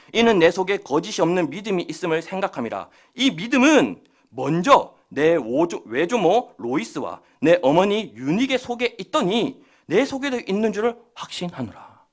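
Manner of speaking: slow, deliberate reading aloud; scripture reading. Real, not acted. Preacher reading a verse to the congregation, deliberate scripture reading. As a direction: read the verse out with measured weight. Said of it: "다시 오 절 말씀 봅니다".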